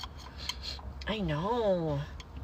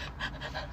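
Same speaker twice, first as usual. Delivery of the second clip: soft, voiceless imitated panting; out-of-breath panting; 16 dB quieter than usual. Mom after running a flight of stairs: imitated soft panting. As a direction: quietly mimic winded breaths. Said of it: "like she had been running".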